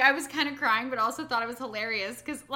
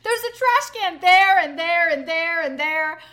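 scolding dad; 5 semitones higher, 11 dB louder than usual. Retold or imitated. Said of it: "dad scolding".

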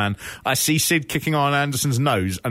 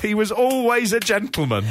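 laughing; 10 semitones higher than usual. Real, not acted. Laughing while quoting Sid.

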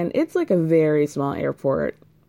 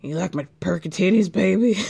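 mock flirty. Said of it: "She's like".

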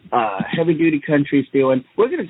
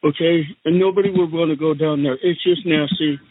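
Donald Trump impression. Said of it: "and I'm the Donnie Trump".

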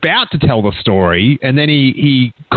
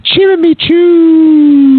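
high, drawn-out Ewok cry; loud, long-held Ewok call; Ewokese; 12 semitones higher, 5 dB louder, much slower than usual. Acted. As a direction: squeal it out like an Ewok storyteller. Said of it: "he starts out in Ewokese".

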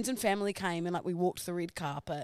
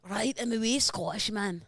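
Scottish accent. Shown as a demonstration. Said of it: "Let me mimic you".

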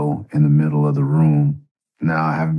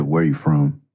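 a high, sharp challenge; tough challenge; 10 semitones higher than usual. Retold or imitated. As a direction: voice the gang member sizing him up. Gang member challenging him.

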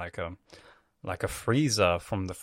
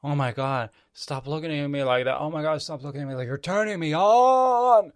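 mock turned-on villain, rising higher as it goes; aroused villain; 4 semitones higher than usual. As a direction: impersonate an over-excited creepy villain. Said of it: "the pedo literally just says".

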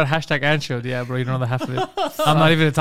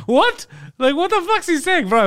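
high, laughing "what?"; to friends about the brother, high laughing disbelief; 12 semitones higher than usual. Real, not acted.

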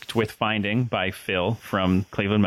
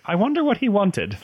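much higher, louder, different voice; a hammed-up dopey movie detective; clueless Leslie Nielsen; 11 semitones higher, 3 dB louder than usual. Retelling a Naked Gun scene, higher, louder and clueless. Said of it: "And he's like".

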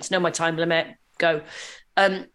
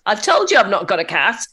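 mock exasperation; 5 dB louder than usual. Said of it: "you can't say to a seven-year-old".

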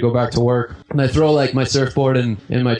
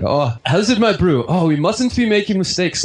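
South African accent; 6 semitones higher than usual. Shown as a demonstration. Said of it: "hear me when I talk with South African people".

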